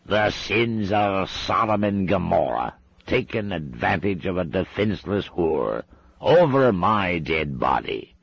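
put-on outraged old Scot storming into the room; shouting. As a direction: thunder it out like a witchfinder catching sinners. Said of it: "He marched through the bead curtain shouting".

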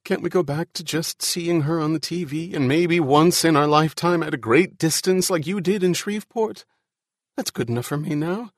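high-pitched, rising distress; anxious pleading. Acted. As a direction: plead as your nerve gives way, voice climbing. Ian despairs, pleading with Al.

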